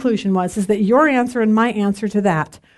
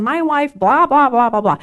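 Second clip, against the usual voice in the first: imitated husband's gripe; mock complaining. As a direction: rattle off the blahs like a griping spouse. Acting out a husband's matching complaint.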